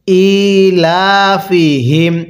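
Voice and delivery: very slow, drawn-out melodic recitation; slow chanted tajweed reading; Quran recitation. Shown as a demonstration. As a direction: recite each syllable long and sung. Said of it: "পড়ুন".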